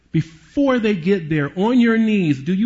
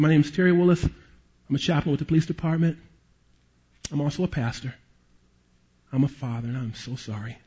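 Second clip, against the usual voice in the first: gentle condolence; 3 semitones lower, 5 dB quieter than usual. Retold or imitated. Chaplain consoling grieving mother.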